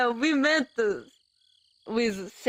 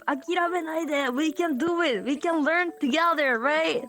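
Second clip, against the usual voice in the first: rousing cheer; 6 semitones higher, faster than usual. Real, not acted. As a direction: fire them up to keep going. Cheering on language learners.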